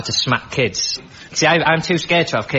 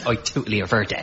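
put-on Birmingham kid; 5 dB quieter than usual. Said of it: "with that accent".

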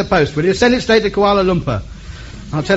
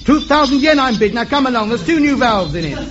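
auctioneer; 6 semitones higher than usual. Acted. Auctioneer takes bids.

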